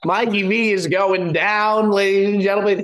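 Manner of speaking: echoing tunnel. Real, not acted. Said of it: "Bob, you sound like you're in a tunnel".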